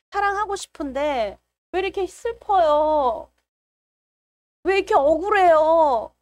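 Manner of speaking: hammed-up wail of a wronged believer; plaintive prayer. Acting out her complaining prayer.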